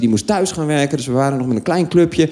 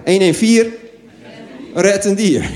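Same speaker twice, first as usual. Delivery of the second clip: jingle-like slogan read; 3 semitones higher than usual. Shown as a demonstration. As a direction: sell the hotline as an ad. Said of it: "dat is de slogan".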